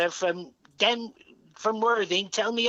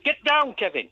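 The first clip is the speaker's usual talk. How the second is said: shouting; 5 semitones higher, 3 dB louder than usual. Acted. Shouts at Kevin.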